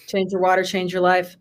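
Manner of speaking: low, soft slogan line; mock slogan. A soft mock slogan for the meeting. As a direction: say it like a cheesy tagline. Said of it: "just go".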